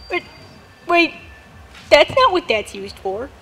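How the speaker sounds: shocked undertone. Acted. Shocked realisation, dropped voice.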